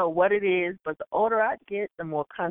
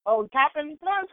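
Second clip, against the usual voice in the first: higher, drawn-out questioning guess; dawning realization; 9 semitones higher, slower than usual. Retold or imitated. Bodega clerk finally understanding the order, surprised. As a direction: suddenly get it, pitched up.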